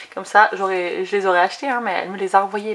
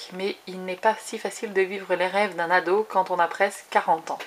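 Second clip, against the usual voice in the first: even, measured read-aloud voice; reading blurb aloud. Real, not acted. Vlogger reading a novel's back cover to viewers, read-aloud voice. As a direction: read the back cover straight through, evenly.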